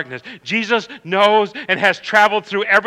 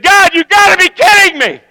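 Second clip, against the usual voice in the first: exasperated cry; 12 semitones higher, 9 dB louder than usual. Retold or imitated. Retold complaint to God.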